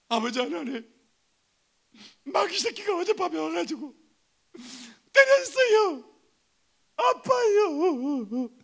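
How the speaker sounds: high-pitched whining wail to a father; mock blubbering, dragged out into a wail at the end; mock crying tattletale. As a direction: sob out the complaint, hammed up. Acting a whining, beaten believer.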